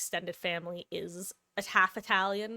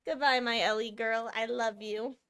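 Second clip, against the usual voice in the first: cooing pet talk; 4 semitones higher than usual. Real, not acted. Saying goodbye to her cat Ellie, cooing pet talk.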